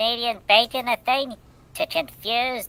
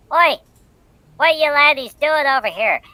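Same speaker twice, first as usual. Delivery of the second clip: a light, hammed-up British accent, higher and louder; mock British accent; 8 semitones higher, 6 dB louder than usual. Russian polar bears voiced in a hammed-up British accent. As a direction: bark it like a British bear, cheeky. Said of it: "they're like".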